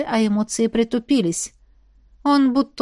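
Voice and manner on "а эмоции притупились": ordinary delivery, nothing marked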